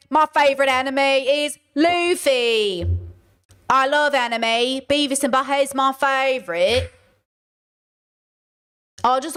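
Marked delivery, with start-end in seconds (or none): 0.1-6.9 slow, lightly put-on clueless fan; mock anime fan. Baiting anime fans, in a slow, lightly mocking fan voice. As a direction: play the clueless fan to bait anime people. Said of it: "I'll get up there and be like".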